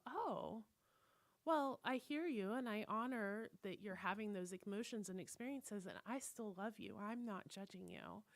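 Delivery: softly reassuring, acted; gently accepting. Voices an accepting, supportive listener.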